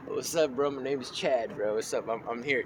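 lightly voiced Chad, low-key and subdued; Chad impression. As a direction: play a laid-back bro introducing himself. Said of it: "the Chad is like".

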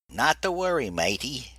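high, loud Long John Silver pirate voice; hammed-up pirate brogue, playful; pirate accent. Benson teasing his gunner in pirate talk. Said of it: "in his Long John Silver's accent".

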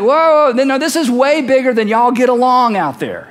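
mildly acted protest; emphatic halt. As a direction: cut in loudly to stop everyone. Acts James halting the listeners.

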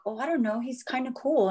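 lightly voiced boys. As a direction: lightly imitate an unsure young son. Her young sons answer, voiced.

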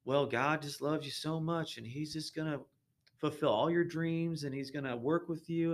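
mild mock Southern TV preacher; a touch of Southern televangelist sweetness. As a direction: lightly put on a Southern lilt. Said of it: "my little Southern voice".

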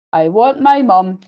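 slow, drawn-out mild shriek; a touch of shrieking, words stretched; mock shriek. Little princess fed up with playmates, mildly shrieking. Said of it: "shrieked the little princess".

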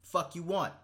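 curt, rude customer greeting. Pretend. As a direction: greet them like you don't care. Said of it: "to every customer".

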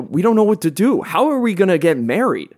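put-on wholesome 1950s kid. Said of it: "they're like".

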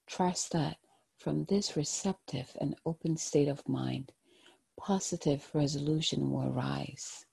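gentle, hushed guided-meditation voice. Acted. Tarot card reading, meditative guidance.

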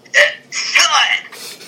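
high-pitched mock shout; retold outburst. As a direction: blurt it out high, imitating a wrestler. Retold wrestler's sudden outburst.

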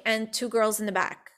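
normal talking voice

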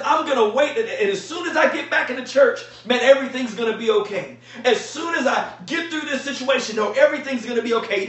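a laughing, hammed-up quote of the wrong attitude; mock wishful quote. Preacher mocks waiting for church to praise, laughing lightly. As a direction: tease the idea of waiting for church, chuckling. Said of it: "Look what it doesn't say".

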